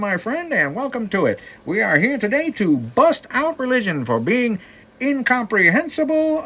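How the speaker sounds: put-on loud, high-pitched old-timey announcer voice; hammed-up twenties broadcast patter; 1920s radio DJ. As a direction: belt it out like a vintage radio host. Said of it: "Nineteen twenties radio D J impression".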